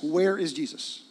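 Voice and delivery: desperate asking. Retold or imitated. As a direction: call out searching, half panicked. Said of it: "we ask".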